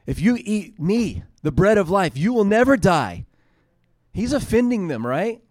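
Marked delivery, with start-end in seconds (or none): 0.1-3.3 building preacher voice. Acted. Preaching Jesus' words with rising force.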